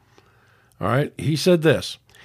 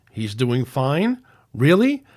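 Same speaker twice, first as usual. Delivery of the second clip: incredulous; slower than usual. Retold or imitated. Throwing the commenter's words back at him, incredulous. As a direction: repeat his phrase back in disbelief.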